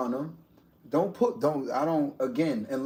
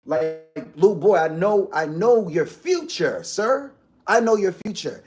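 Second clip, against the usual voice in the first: put-on louder, assertive scolding of a little boy; 3 semitones higher, 6 dB louder than usual. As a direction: lay down the law to a troublemaking kid. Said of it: "I speak like".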